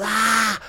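high-pitched "ah" of pain; retold yelp of agony; acted pain cry. Acts out his sudden sharp pain.

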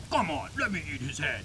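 lightly voiced monster pleading for food; a hint of hungry creature voice; Venom. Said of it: "Venom's like".

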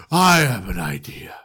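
hushed scheming whisper. Acted. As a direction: sly whisper. Manager turns sinister.

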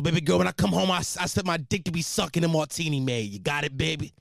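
comic Irish-Italian working guy. Acted. Road worker bragging to his baby girl, Irish-Italian voice. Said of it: "Irish Italian voice".

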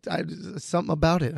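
normal talking voice

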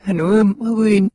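reversed audio playback; the phrase run in reverse; played backwards. Shown as a demonstration. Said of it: "let's play it backwards".

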